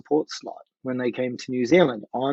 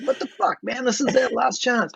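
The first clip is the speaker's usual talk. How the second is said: retold annoyance; 10 semitones higher than usual. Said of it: "so pissed off at him".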